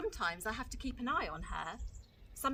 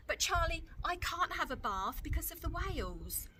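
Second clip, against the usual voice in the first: high, cheeky little sister; a small girl insisting, higher; Lola's little-girl voice; 7 semitones higher than usual. Acted. Lola voiced by reader.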